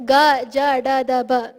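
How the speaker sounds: Ga, Ja, Da sounded out strongly with full voice; fully voiced. Shown as a demonstration. Teacher contrasting voiced letters for students, firmly voiced. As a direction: push the voice into each syllable. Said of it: "you cannot say these without using your voice".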